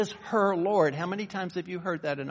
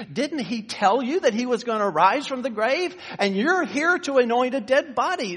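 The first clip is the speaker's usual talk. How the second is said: incredulous angels; 3 semitones higher, 3 dB louder than usual. Acted. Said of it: "they say".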